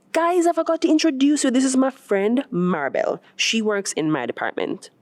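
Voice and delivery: a cheerful friend calling the group; bubbly introduction. Acted. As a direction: rush the intro eagerly. Renee introduces Maribel.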